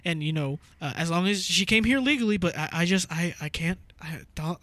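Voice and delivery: stammering mock-earnest white caller; hesitant, lightly put-on white-guy voice. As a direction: stumble apologetically through a mock complaint. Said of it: "I'll put on my white voice".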